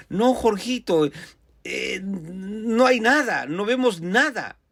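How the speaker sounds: slow, drawn-out retold denial; distressed denial. Family telling little Jorgito they see nothing, slow distressed denial. Family answers the boy's vision.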